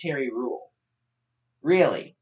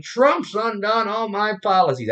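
Obama quote in a higher redneck twang; redneck accent; 4 semitones higher than usual. Acted. Streamer voicing Obama complaining about Trump, redneck accent. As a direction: slip into a hammed-up redneck accent. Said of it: "sounds like a redneck".

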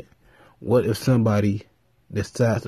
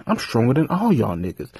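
a hint of a cocky Superman boast; lightly voiced Superman. Superman boasting to the team holding him back, lightly put-on voice. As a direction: shift your timbre a little, proud and dismissive.

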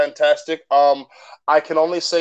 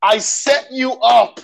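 raised, higher-pitched playful scolding; mock exasperation; 6 semitones higher, 4 dB louder than usual. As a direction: scold a friend in mock outrage, voice climbing. Mock-scolding guest for missed joke.

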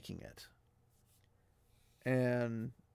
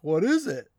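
high, hissing creature voice; Gollum impression; 6 semitones higher, 5 dB louder than usual. Mimicking the characters as Gollum, creepy creature voice. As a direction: croon it like a greedy creature. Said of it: "they're like".

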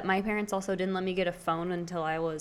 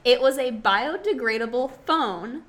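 laughing, spraying spit mid-sentence; loud laugh that sends spit flying; spit take; 6 semitones higher, 9 dB louder, slower than usual. Real, not acted. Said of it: "you just spit everywhere".

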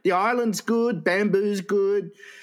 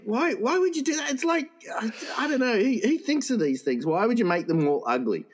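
much higher, exasperated disbelief; incredulous; 7 semitones higher than usual. Real, not acted. Reacting to the film premise with much higher incredulous disbelief. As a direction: rant in disbelief. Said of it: "incredulous ranting".

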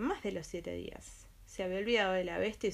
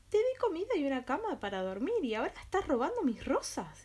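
roaring beast; 6 semitones higher than usual. Acted. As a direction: roar it like an angry beast. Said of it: "dijo rugiendo".

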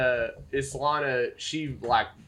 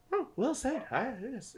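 pleased goblin leader; 11 semitones higher, 7 dB quieter than usual. Acted.

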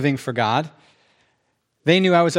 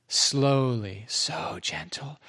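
soft, slow, hushed delivery; slow and gentle; 2 semitones lower, 7 dB quieter, much slower than usual. Retold or imitated. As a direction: let it fade away gently and unhurried. Describing the singer's slow, gentle playing.

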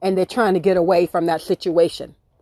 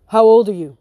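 gruff question; 6 dB louder than usual. Retold or imitated. Owner questioning her.

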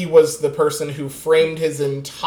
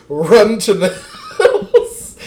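laughing mock alarm; 5 semitones higher, 8 dB louder, slower than usual. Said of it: "or Andrew Yang's".

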